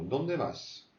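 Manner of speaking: Dónde lifted a little, vas falling. Shown as a demonstration. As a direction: nudge Dónde upward. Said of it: "quand on monte un peu vers le haut".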